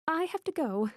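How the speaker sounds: high, urgent, repeating the plea; panicked repeat. Acted. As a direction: say it again in alarm. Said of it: "I repeat".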